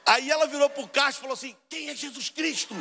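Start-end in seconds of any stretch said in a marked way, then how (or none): 1.7-2.7 high, drawn-out call; barista asking around. Retold or imitated. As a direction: call slowly across the room in a high voice. Barista calls out to waiting customers. (atendente perguntando alto e arrastado, voz aguda)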